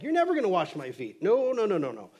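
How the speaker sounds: emphatic refusal. Retold or imitated. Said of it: "Peter then kinda doubles down".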